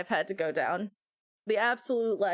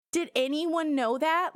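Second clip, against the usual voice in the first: "Did anyone know that?" repeated higher, slow, a calmer rising question; milder incredulity; 6 semitones higher, slower than usual. Real, not acted. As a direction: repeat it, still amazed but calmer.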